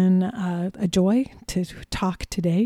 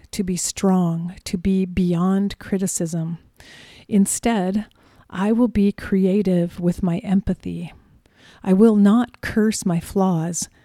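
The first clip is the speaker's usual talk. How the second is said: poem reading. Shown as a demonstration. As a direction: read it like a spoken poem. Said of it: "I wanted to read a poem to you".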